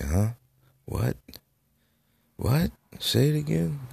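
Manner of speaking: high-pitched, not-catching-it questions; puzzled asking. Retold or imitated. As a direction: imitate yourself asking for a repeat, voice way up. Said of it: "I kept saying".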